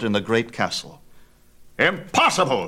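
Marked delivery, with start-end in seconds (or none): 1.8-2.7 a sudden, higher, louder outburst of disbelief; cried out. A narrator's reading. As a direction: fling out the refusal at once. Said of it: "he cried".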